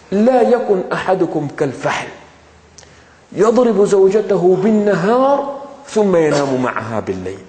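quick Arabic recitation of the hadith. Real, not acted. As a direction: recite the Arabic words fast, like a well-known text.

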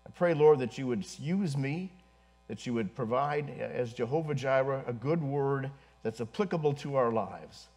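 low, hushed congregational prayer. Real, not acted. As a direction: pray softly and humbly to God.

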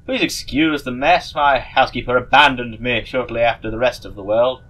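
silly voice. Acted. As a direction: draw it out like a goofy sorcerer. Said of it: "I'm gonna give this person a silly voice".

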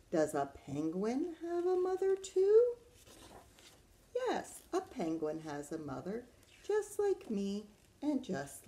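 sing-song storybook questions and answers; reading to children. Acted. Teacher reads penguin and swan pages, lilting storytime voice. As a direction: lilt through the refrain with big pitch swoops.

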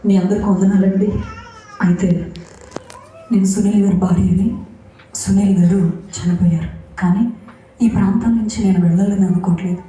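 firm, earnest speech into a mic; a resolved declaration to the crowd, lightly re-enacted; retold public address. Widow addresses the mourners at the funeral, a firm retold speech. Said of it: "mic తీసుకుని ఒకటే చెప్పాను".

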